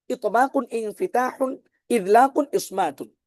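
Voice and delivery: slow, measured recitation of the names in pairs; tajweed recitation. Shown as a demonstration. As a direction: recite each pair slowly and deliberately, like a lesson drill. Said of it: "আমি কিন্তু জোড়ায় জোড়ায় পড়েছি".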